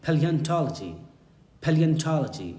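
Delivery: careful model of "paleontology", stress on TAL; exact model pronunciation. Shown as a demonstration. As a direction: say "paleontology" as pay-lee-un-TAL-uh-jee. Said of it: "style में अगर पढ़ना हो exactly".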